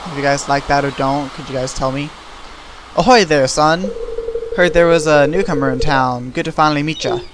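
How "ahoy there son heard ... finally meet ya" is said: louder, hearty old sailor voice, lightly put on; a hint of a pirate fisherman; salty fisherman voice. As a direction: greet the newcomer like a weathered seadog. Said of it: "I'm gonna try to give them little voices".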